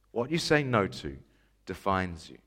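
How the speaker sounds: hushed echo, pause before "defines you". Retold or imitated. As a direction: let the slogan sink down softly. Slogan repeated for effect.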